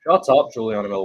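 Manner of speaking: sudden loud yell at the fighter; fed-up yell of shut up at the TV; yelling at the screen. Real, not acted. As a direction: shout her down at the screen. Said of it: "Why are you screaming?".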